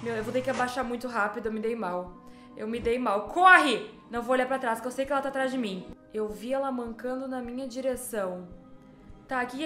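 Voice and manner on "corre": urgent shout. Real, not acted. Fleeing the nun.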